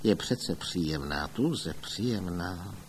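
muttered to himself. A narrator's reading. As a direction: say it only for yourself. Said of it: "zabroučel pro sebe". (zabručí si potichu pro sebe)

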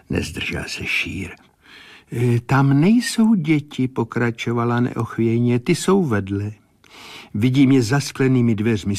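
a hint of a medium reporting what she sees; measured, trance-like clairvoyant reading; entranced seer. Clairvoyant describing her vision.

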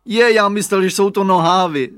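put-on a sleepy boy caught out in surprise; surprised little boy. A narrator's reading. Radovan se diví. (překvapený chlapec, vyšší a hlasitější hlas)

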